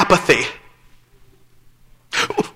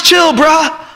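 mock lazy teen; 4 semitones higher than usual. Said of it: "Just chill, bruh".

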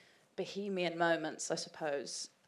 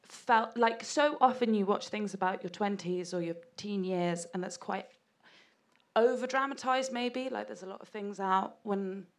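shaky voice. Real, not acted. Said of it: "sorry, my voice is shaking".

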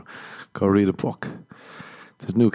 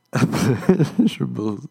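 drawn-out savouring; 3 semitones higher, slower than usual. Acted. Savouring the word comically.

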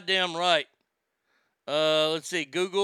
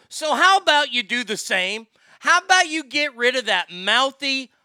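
angry complaint; 2 semitones higher, 4 dB louder than usual. Real, not acted.

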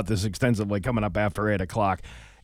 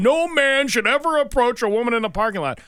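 higher, louder prim lecturing mimicry; mocking the TikTok woman; 10 semitones higher, 4 dB louder than usual. Host ridicules the woman's rule, high and preachy. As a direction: parody her as a self-righteous scold. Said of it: "she's telling".

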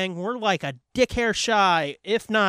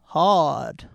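grandma voice; 4 semitones lower than usual. Pretend. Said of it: "Your grandma voice".

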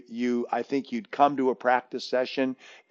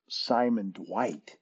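soft, slow, puzzled repeat of "Simon Dwight?"; disbelieving echo; 2 semitones lower, 7 dB quieter, slower than usual. Retold or imitated. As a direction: echo the name in quiet disbelief. Speaker's disbelieving echo of name.

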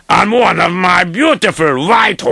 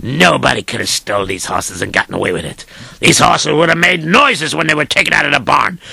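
indignant rich man; faster than usual. Acted. Rich man rants at servant.

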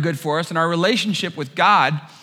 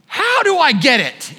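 laughing disbelief; 7 semitones higher, 4 dB louder, slower than usual. Retold or imitated. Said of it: "and I'm like".

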